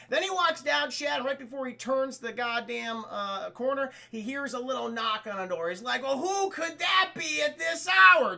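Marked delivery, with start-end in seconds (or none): 6.0-8.4 hammed-up loud, high wondering; puzzled husband. Husband hearing a knock on the door, hammed-up wondering. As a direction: draw it out in theatrical puzzlement.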